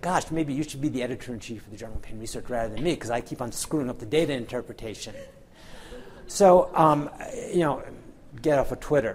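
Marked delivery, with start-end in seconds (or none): 0.0-5.1 fast, snide, sarcastic tone. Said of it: "I'd be real snide and say".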